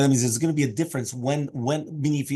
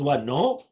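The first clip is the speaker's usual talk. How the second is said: "No" as a rising question; rhetorical no. Shown as a demonstration. Teacher showing a no that means yes, rhetorical. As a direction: ask "No" as if meaning yes. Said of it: "it depends on how you say it".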